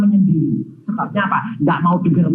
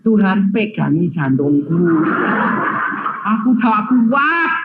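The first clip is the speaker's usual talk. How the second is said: slow pleading prayer; slower than usual. Retold or imitated. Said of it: "saya berdoanya bagaimana".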